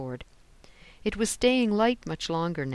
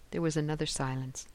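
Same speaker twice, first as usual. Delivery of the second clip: usual speaking voice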